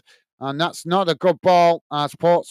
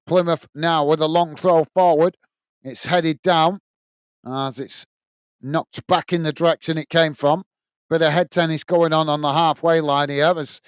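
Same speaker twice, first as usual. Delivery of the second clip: live radio match commentary; steady running commentary on the play; football play-by-play. Real, not acted. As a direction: call the match as it unfolds.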